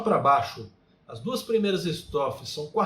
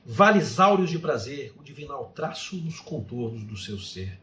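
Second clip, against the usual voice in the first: poetry recitation. Shown as a demonstration. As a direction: recite haiku grandly, lingering on the phrases. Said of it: "Eu vou recitar alguns haikais". (declamação poética, lenta e enfática)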